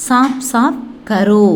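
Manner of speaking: சாப் சாப் கரோ slowly, word by word; Hindi pronunciation demo. Shown as a demonstration. Teacher shows learners the Hindi for "do it clearly", slow pronunciation demo. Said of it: "எப்படி ஹிந்தியில pronounce பண்றது".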